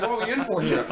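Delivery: high, laughing mock worry; giggling while bracing for a scary film; laughing dread. Laughing dread recalling the creepy opening scene. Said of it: "I was like".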